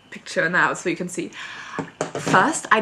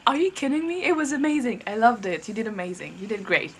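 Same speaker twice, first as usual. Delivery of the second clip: retold annoyance. Fan retelling her annoyed reply to the idol, mild mock indignation. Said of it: "I got annoyed at him".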